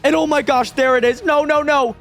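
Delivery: high, urgent alarm; worked-up, alarmed protest; panicky. Real, not acted. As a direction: pitch up in mild panic. Sees the gifted fruit being taken.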